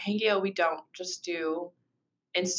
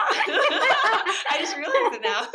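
high, slow words broken by laughter; can barely speak for laughing; 14 semitones higher, 5 dB louder, much slower than usual. Real, not acted. Catches her friend's habit again.

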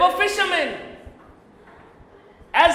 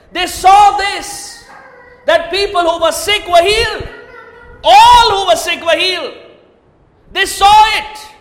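forceful preaching; 4 semitones higher, 5 dB louder than usual. Acted. Preacher stressing the miracles.

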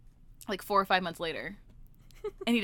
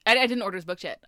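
usual speaking voice

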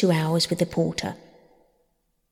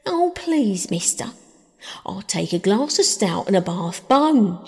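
a lightly voiced old lady asking sweetly; a hint of a meek old lady pleading; old lady quoted; 2 semitones higher, 3 dB louder than usual. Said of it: "she says".

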